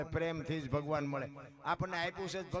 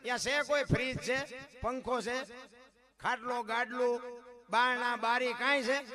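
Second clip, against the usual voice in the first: loud, raised preaching voice; fiery preaching; 6 semitones higher, 5 dB louder than usual. Acted. Preacher listing a poor hut's belongings, loud and raised. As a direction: hammer each item out to the crowd.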